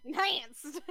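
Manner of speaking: "Enhanced" playfully echoed with a punch; imitated emphatic ENHANCED. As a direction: mimic an all-capitals "Enhanced". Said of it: "I like the way you say enhanced".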